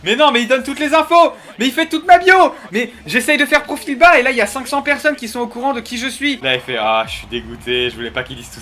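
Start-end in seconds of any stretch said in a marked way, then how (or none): 0.0-6.4 laughing outrage. Real, not acted.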